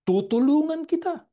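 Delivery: shouted high and loud, a ringing divine promise; booming promise. Acted. Preacher to the congregation, booming God's promise of help. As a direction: proclaim it to the whole congregation.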